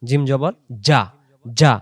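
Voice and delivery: যা with a firm hard j; firm jeem sound. Shown as a demonstration. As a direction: strike যা hard and solid. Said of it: "শক্ত কথায় জিম".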